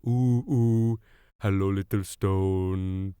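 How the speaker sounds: lightly voiced eccentric uncle, slow and doting; cooing to a stone. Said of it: "singing to them".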